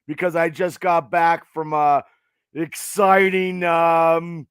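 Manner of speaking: hoarse from cheering; raspy voice. Real, not acted. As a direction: talk through a worn-out voice. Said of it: "My voice is a little raspy".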